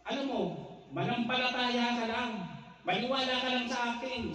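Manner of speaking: a hint of a persuasive faith healer; healer's voice. Healer urges the sick boy to believe, lightly voiced coaxing. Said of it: "sabi sa akin nung albularyo".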